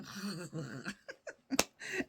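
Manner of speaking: drawn-out drooling noise over food; imitated cartoon glutton's noise, then a laugh; Homer Simpson. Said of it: "I feel like Homer now going".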